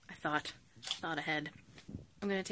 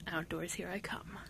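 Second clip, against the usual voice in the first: whispered cheer; 5 dB quieter than usual. Real, not acted. Whispered eager aside.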